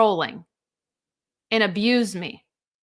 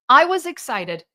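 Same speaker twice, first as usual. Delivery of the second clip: louder, bursting with remembered excitement; excited emphasis; 2 semitones higher, 5 dB louder than usual. Real, not acted. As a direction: punch the word excited with real glee.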